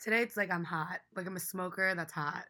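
hoarse, smoky allergy voice; rough, scratchy voice; raspy voice. Real, not acted. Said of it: "I'm embracing this voice".

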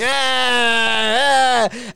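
long open "aah" held out; drawn-out mock wail. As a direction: imitate a group wailing in one long note. Imitating the whole group wailing.

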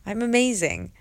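mildly defiant self-praise; defiant self-affirmation. Retold or imitated. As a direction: cut off the doubt, voice lifted. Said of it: "I'd be like".

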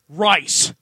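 mock Japanese accent, one word; a hammy fake Japanese word. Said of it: "let me do my Japanese".

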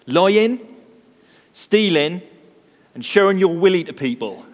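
put-on broad West Country accent, boyish and confident; a kid answering in a broad West Country accent. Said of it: "in a broad West Country accent".

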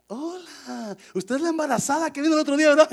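high, very quick friendly hello; chirpy greeting. Acted. Greeting someone mistaken for a pregnant visitor, chirpy.

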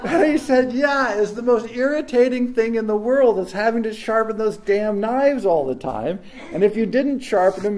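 laughing while retelling; chuckling through the story. Real, not acted. Still laughing retelling friend.

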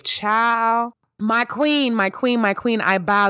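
adoring fan bowing down; gushing praise. Real, not acted. Gushing over a singer.

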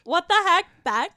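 catchphrase squeal. Acted. Friends' catchphrase cheer.

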